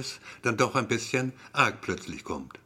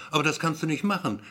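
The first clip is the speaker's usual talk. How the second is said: indignant outburst; 5 semitones higher, faster than usual. Acted. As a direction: blurt it out, outraged and quick. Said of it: "empört sich Fred". (empört und schnell, etwas lauter)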